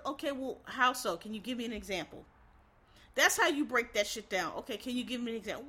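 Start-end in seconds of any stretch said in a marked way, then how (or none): 0.1-2.2 calm professional. Acted. Acted calm reply to complaint. 4.6-5.7 calm professional. Acted. Acted calm reply to complaint.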